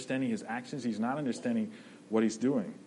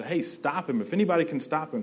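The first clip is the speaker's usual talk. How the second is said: higher and louder, urgent plea; pleading call; 5 semitones higher, 4 dB louder than usual. Retold or imitated. Bystanders pleading with Peter to stop the robber, urgent. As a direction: call out for help, a touch hammed. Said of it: "They're pleading for him to".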